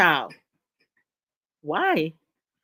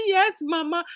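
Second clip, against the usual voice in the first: put-on a light, higher "Yes, mama" like a little boy; mimicking a childlike voice; 9 semitones higher than usual. Host imitating the viewer answering like a child, higher. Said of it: "And he changed his voice".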